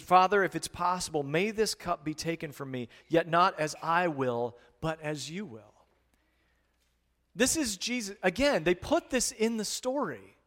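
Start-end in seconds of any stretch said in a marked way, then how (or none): 0.0-5.9 earnest prayer. Retold or imitated. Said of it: "He said".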